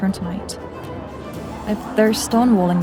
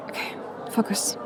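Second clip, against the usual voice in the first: very soft, under the breath; whispered self-talk; 10 dB quieter than usual. Acted. Infiltrator steadying herself on the balcony, whispered self-talk. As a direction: whisper it to yourself to regain focus.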